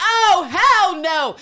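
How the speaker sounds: drawn-out shout, high and loud; loud slow hell no. Retold or imitated. Podcaster as Lister hearing the money offer, slow loud refusal. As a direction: bellow the refusal slowly. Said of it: "she was like".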